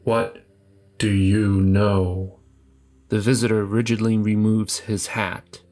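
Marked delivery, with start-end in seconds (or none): 0.0-2.4 slow, flat robotic stranger; monotone voice. Acted. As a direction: speak like an emotionless man in black. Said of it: "a monotone voice inquires".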